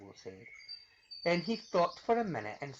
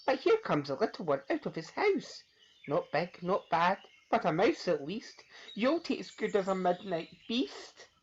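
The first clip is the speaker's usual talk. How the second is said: higher voice, sizing up prey; hungry child monster; 6 semitones higher than usual. Acted. Gruffalo's child eyeing the mouse, gleeful. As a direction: relish the snack.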